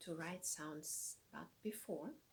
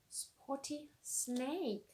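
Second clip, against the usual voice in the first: very slow clear repeat; 5 semitones higher, much slower than usual. Shown as a demonstration. Teacher repeats slowly.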